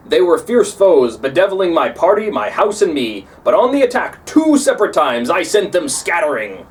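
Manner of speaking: a hint of proud defiance; proud Farinata, lightly voiced. Farinata boasting to Dante about his victories, lightly proud. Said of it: "Farinata says".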